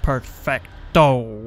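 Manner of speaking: slow silly "Perfecto"; playful Spanish word. Real, not acted. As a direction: stretch it out goofily. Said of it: "I don't know what I'm saying".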